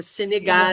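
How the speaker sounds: "Senegal" ends with the L touched on the roof of the mouth; final L on palate. Shown as a demonstration. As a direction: end "Senegal" with the tongue curling up to the palate for L. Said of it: "Esse L final é lá no céu da boca".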